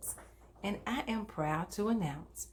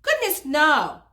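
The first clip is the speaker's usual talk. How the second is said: emphatic goodness no; 8 semitones higher, 15 dB louder than usual. Acted. Moral told brightly to kids.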